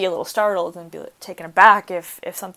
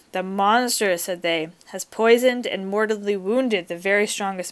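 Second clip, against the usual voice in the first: story reading. A narrator's reading. Teacher reads story aloud.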